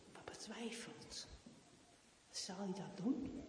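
hushed storyteller whisper; whispered narration. Acted. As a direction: breathe the words, no voice.

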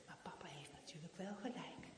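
hushed storyteller whisper; whispered narration. Acted. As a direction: breathe the words, no voice.

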